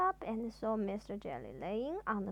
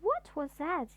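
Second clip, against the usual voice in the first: mild shriek; 4 semitones higher than usual. Acted. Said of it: "he shrieked".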